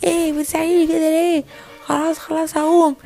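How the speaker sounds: put-on high protesting young boy; defiant child. Boy defies scolding babysitter. (اعتراض ولد معاند)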